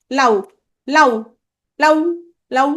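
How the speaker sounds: লাউ with the final উ cut short as a glide; half vowel. Shown as a demonstration. Teacher showing students a half vowel, লাউ ending on a short উ. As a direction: end লাউ on a brief half-sounded উ. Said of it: "অর্ধেকে শেষ হলো".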